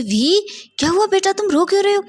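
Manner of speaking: put-on a worried dad calling to his child; anxious father. A narrator's reading. Father rushing to his crying son, alarmed. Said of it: "जल्दी से wing के पास जाते हैं".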